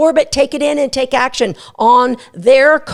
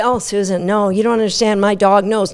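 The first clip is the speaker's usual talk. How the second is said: protesting owner; 4 semitones lower than usual. Retold or imitated. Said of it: "And you can say".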